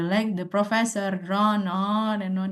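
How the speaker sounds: slow, dragging bored delivery; bored, lazy tone. Shown as a demonstration. Teacher demos a bored student's droning reply. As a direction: drag it out like a tired, bored student. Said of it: "Kayak orang males gitu ya".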